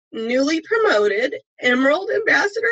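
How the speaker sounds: fighting back real tears as you announce her; choked up. Real, not acted. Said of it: "here I am getting emotional again".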